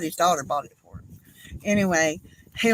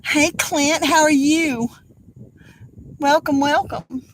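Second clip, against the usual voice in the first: cheerful greeting; 6 semitones higher, 5 dB louder than usual. Real, not acted. Greeting a viewer joining.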